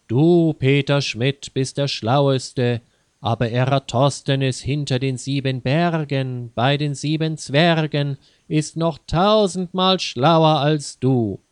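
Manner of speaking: mock magic mirror. Mimics the magic mirror answering.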